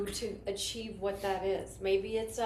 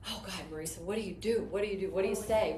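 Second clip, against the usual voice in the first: panicked inner voice; 2 semitones lower, faster than usual. Retold or imitated. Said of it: "I was scared".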